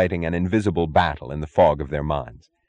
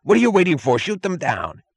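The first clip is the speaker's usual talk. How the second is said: screamed order; 12 semitones higher than usual. A narrator's reading. Chief screaming at his men to fire. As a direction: drive the men to shoot. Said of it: "screamed the chief".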